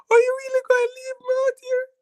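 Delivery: imitated high-pitched, hurried plaintive plea; sad tone. Girl begging him not to leave her at the bus, sad imitation. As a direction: mimic her sad, pleading voice, high and quick. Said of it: "hear the sad tone".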